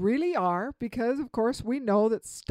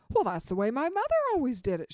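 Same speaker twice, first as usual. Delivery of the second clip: daughter, quick; faster than usual. Retold or imitated. Daughter answering her husband, quick and matter-of-fact. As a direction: rattle it off like it's obvious. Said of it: "she said".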